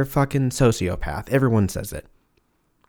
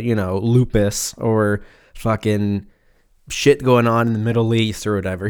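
mocking self-absorbed TikToker; 2 semitones higher, 3 dB louder than usual. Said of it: "we're like".

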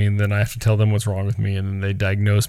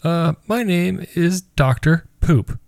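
put-on little girl voice; 6 semitones higher, slower than usual. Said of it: "And she goes".

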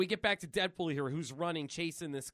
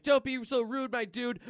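higher, louder hero quip; mock scolding; 5 semitones higher, 4 dB louder than usual. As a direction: lightly call it out mid-fight. Deadpool quipping in a fight.

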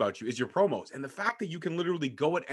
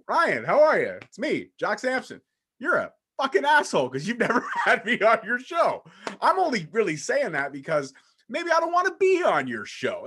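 raised, hammed-up promo rant; wrestling promo voice; 7 semitones higher, 4 dB louder than usual. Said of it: "the promo that he did for Ryan".

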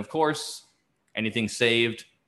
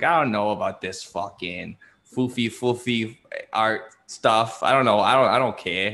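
Boston local. Retold or imitated. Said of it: "classic Boston shit".

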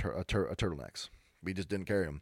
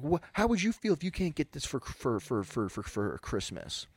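mock indignant customer. Customer guilt-tripping clerk, mock indignant sputter. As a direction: sputter the complaint, dragging out the end. Upset customer pleads her case.

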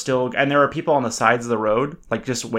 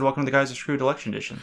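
rushed intro; 2 semitones higher, 4 dB quieter, faster than usual. Shown as a demonstration. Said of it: "that's different. You have to repeat it".

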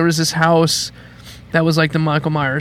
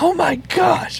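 mock frightened child; 12 semitones higher, much slower than usual. Scared child reacting to threat.

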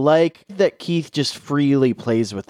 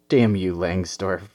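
mock dramatic last words; 6 semitones lower than usual. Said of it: "closing thoughts".

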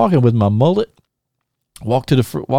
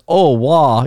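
imitated catchphrase; 3 semitones higher, 4 dB louder than usual. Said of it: "you guys used to always say that".

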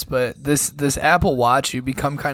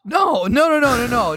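loud; 8 semitones higher, 4 dB louder than usual. Real, not acted. Denies watching it.

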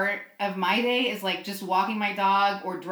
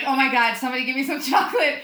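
desperate plea; 4 semitones higher, 5 dB louder, faster than usual. Retold or imitated. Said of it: "I was like".

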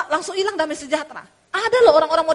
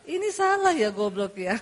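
softer, amused scolding with a smile; smiling insult; 5 semitones lower, 3 dB quieter than usual. Retold or imitated. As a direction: insult him gently, smiling. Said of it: "Cuma sambil senyum".

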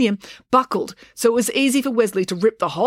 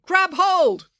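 high-pitched urgent command; urgent cry; 13 semitones higher than usual. A narrator's reading. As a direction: cry out for someone to hang on. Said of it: "cried Finn".

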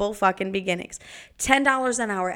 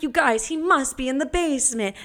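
mock excited; 5 semitones higher than usual. Fooling kids about Santa.

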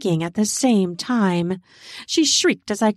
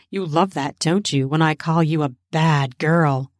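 lightly lowered teasing voice; dominant lover; 4 semitones lower than usual. Acted. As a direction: tease low, with authority. Dominant lover teases partner.

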